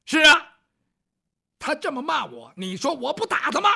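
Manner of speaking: indignant ruffian. Acted. Ruffian justifies hitting.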